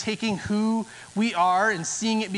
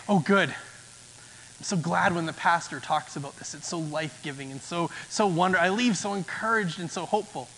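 softer, sarcastic churchgoer gushing; mock enthusiasm; 6 semitones lower, 4 dB quieter than usual. Churchgoer whispering to a neighbour, mock gushing. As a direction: fake delight at a hard sermon. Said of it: "lean over to the person next to them and say".

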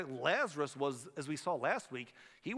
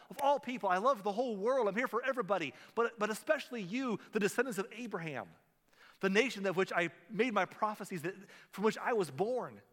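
higher, louder, pleading lament; impassioned plea; 6 semitones higher, 3 dB louder than usual. Retold or imitated. Preacher voicing Jesus pleading with Jerusalem, higher and louder. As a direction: cry out to the people you love. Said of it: "with tears on his face".

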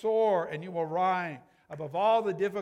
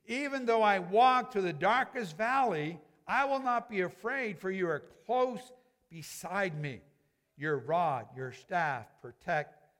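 slow, reverent reading of a psalm; scripture reading. Acted. Pastor reads Psalm twenty-three to the congregation, slow and reverent. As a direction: let each line of the psalm settle slowly.

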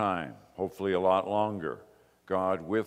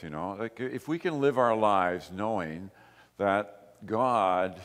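usual speaking voice

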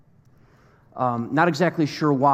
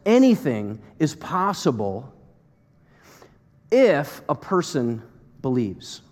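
slow solemn assurance; slower than usual. Retold or imitated. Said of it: "And then he says".

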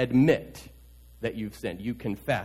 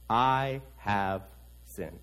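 much softer, fading to almost nothing; broken confession; 7 semitones lower, 8 dB quieter, much slower than usual. Acted. King David confessing before Nathan, broken and faint. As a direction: let the words collapse.

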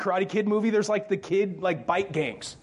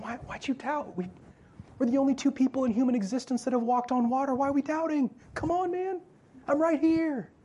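gentle Jesus; 5 semitones higher than usual. Retold or imitated. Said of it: "do you read a Jesus going".

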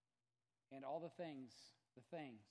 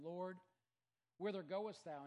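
raised, pleading call of Lord; calling out Peter's question; 5 semitones higher, 8 dB louder, slower than usual. A narrator's reading. Peter calls out to Jesus in the upper room, raised voice. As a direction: cry it out to the Lord. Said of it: "Simon Peter saith unto them".

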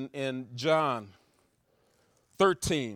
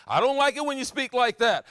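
critic's complaint; 7 semitones higher, 7 dB louder than usual. Retold or imitated. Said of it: "people tell me".

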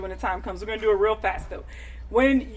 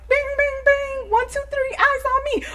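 high singsong call for attention; kindergarten teacher voice; 14 semitones higher, 3 dB louder than usual. Retold or imitated. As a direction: call the class to order like a bright kindergarten teacher. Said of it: "Like my kids, I have a bell. It's like".

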